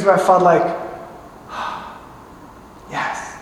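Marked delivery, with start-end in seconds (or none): 1.5-3.3 sighed yes. Real, not acted. Relieved sigh after fever gone.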